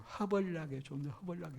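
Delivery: lightly voiced Jeolla dialect phrase; touch of Jeolla accent, understated. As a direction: toss off a Jeolla saying. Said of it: "전라도 말로".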